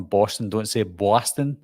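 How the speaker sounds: "Boston" with a New York vowel; imitation New York accent. Shown as a demonstration. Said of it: "people from New York that say that".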